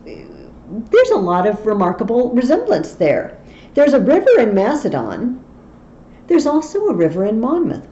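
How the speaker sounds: hammed-up eager Welsh captain; mock-earnest Fluellen. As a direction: sell the silly comparison with delight. Fluellen's comic comparison.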